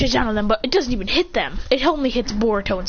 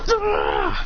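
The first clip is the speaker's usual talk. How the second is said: imitated cry; 10 semitones higher than usual. Fighter being bound by wood, mock yell. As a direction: let out a play-acted cry.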